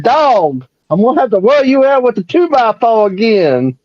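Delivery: lightly voiced Southern cartoon rooster; mock-threatening rooster bluster; Foghorn Leghorn. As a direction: scold like a blustery cartoon rooster, pitch rising. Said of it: "listen to Foghorn Leghorn".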